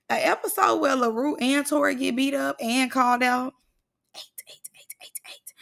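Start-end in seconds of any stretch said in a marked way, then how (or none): 4.1-5.5 breathy whispered counting. Acted. Vlogger whispering a rhythmic count to her viewers.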